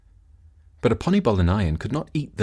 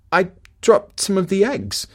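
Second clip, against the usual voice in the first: calling back; 11 semitones higher, 4 dB louder than usual. Acted. Wife calls back excuse.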